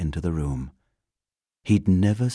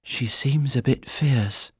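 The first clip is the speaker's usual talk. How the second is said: slow, higher-pitched small bear; wary little bear; 8 semitones higher than usual. A narrator's reading. Bear watching the housekeeper retreat, wary.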